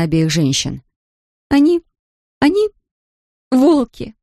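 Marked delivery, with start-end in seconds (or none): 1.5-4.1 put-on high, halting Polish-accented search for a word; groping for the word. A narrator's reading. Polish girl struggles to describe her employers, halting and high. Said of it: "нашла она наконец слово".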